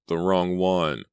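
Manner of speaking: the moaning voice echoes its mistake; moaning repeat. Acted. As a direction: repeat it in rising panic. Voice repeats in panic.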